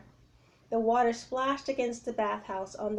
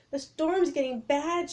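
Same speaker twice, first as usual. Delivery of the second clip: raised voice against wind, slower; shouting over the storm; 6 semitones higher, 4 dB louder than usual. Acted. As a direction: call out through pounding rain. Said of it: "shouted Annie".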